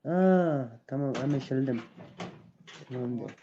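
normal talking voice

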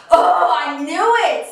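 knowing, bitter. Retold or imitated. Retelling catching him, slow and knowingly bitter. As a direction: drag it out like you saw it coming. Recalling her suspicion confirmed.

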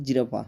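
"জিরাফা" ending on an open a; "জিরাফা" as a careful model for learners; Russian pronunciation demo. Shown as a demonstration. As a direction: say "জিরাফা" with an added final vowel. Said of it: "রুশ ভাষায় উচ্চারণটা হবে".

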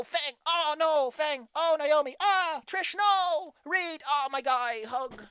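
high, loud gasping cries at each name; excited fan reactions. Retold or imitated. Imagining caring fans shouting for characters, excited. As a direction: react like a fan swept up in the story. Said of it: "I wanna sit there and go".

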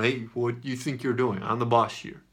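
stern boss rebuke; scolding. Retold or imitated. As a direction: scold the lion like a pet. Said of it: "pointing my finger at the lion".

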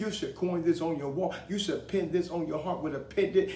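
building, insistent sermon delivery; rhythmic preacher's exhortation; fervent preaching. Real, not acted. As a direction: drive each phrase home to the congregation. Preacher building to full force.

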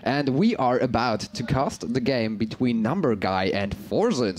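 ordinary talk

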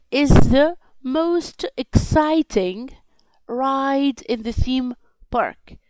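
slow, deliberate reading for the class; slow model reading. Shown as a demonstration. Teacher reads the example slowly to pupils. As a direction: spell each word out slowly for learners. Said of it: "teacher models the sentence slowly".

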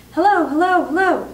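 high, loud parrot call; loud, clear parrot voice. A narrator's reading. Hidden parrot heard across the hall, loud and clear. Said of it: "a voice came loud and clear".

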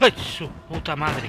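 loud, slow, terrified curse; frightened yell of panic; panicked cry. Real, not acted. Fleeing a monster.

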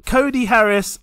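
reading names slowly and deliberately; slowed-down reading. Real, not acted. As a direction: stretch every name out, tired of the list. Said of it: "you all slowed me down".

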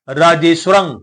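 "ਰਾਜੇਸ਼ਵਰੰ" with only a half v after the sh; half vava. Shown as a demonstration. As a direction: say "ਰਾਜੇਸ਼ਵਰੰ", the ਵ light and joined to ਸ਼. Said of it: "ਪੂਰੇ ਦਾ ਉਚਾਰਨ ਨਹੀਂ ਕਰਾਂਗੇ". ("ਰਾਜੇਸ਼ਵਰੰ" ਵਿੱਚ ਸ਼ ਦੇ ਪੈਰ ਵਿੱਚ ਅੱਧਾ ਵੱਵਾ, ਪੂਰਾ ਨਹੀਂ)

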